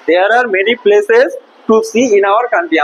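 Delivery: slow, deliberate model sentence; slow reading. Shown as a demonstration. Teacher reading the textbook line slowly to the class. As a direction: spell it out slowly for the pupils. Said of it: "teacher rereads sentence slowly".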